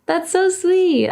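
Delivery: high, slow, touched coo. Real, not acted. Thanking fans who want to sing like her, touched.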